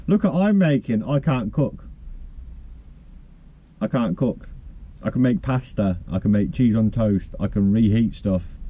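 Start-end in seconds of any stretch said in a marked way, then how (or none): none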